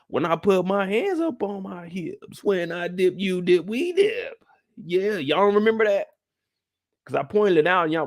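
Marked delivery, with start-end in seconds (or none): 0.1-4.4 slow, rising sing-song mock of Charles. Mocking Charles to the viewers, a rising sing-song imitation. 4.8-6.1 hushed aside to the viewers; whisper. Real, not acted. Reminding viewers of an old joke, whispered.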